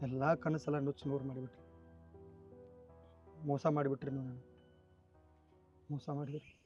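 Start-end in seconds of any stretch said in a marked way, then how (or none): 0.0-1.7 softer, lower, broken-hearted; hurt. Acted. Dreams shattered, accuses director. 3.5-4.5 softer, lower, wounded accusation; quiet hurt. Acted. Cheated man, hurt.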